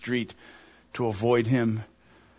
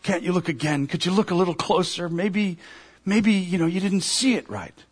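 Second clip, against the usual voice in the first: pleading a little higher, without real sobs; understated desperate appeal, pitched up; mild tearful pleading; 5 semitones higher than usual. Acted. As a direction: plead lightly as a man near tears. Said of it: "the guy just begins to sob right there".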